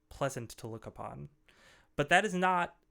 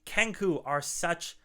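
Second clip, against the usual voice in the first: amused ogre; 4 dB louder than usual. Acted. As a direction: speak as an ogre after a belly laugh. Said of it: "the ogre sort of gives this belly laugh and say".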